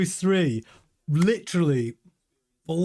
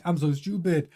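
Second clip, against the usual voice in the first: lightly attempted French accent; a hint of a bad French accent; Leclerc's French accent. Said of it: "I can't do the accent".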